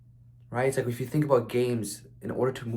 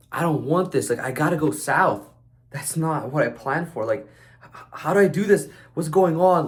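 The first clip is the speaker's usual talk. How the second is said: rising, louder panicked rant, climbing to a near shout; frantic "what do I do" voice, getting higher and louder; mock panic; 5 semitones higher, 5 dB louder than usual. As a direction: act out the stranded boater losing it. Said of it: "So you're like".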